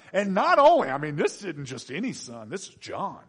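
ordinary delivery

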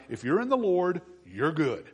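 ordinary talk

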